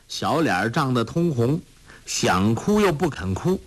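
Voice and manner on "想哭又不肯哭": ordinary delivery, nothing marked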